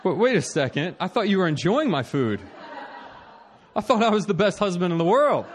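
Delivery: half-laughing wait, what; laughing disbelief. Retold or imitated. Husband caught off guard by crying wife, laughing in disbelief. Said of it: "And I'm like".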